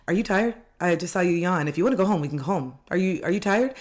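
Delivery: high, sweet pushy concern; fake concerned friend. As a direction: coax them toward going home. Acted friend at club.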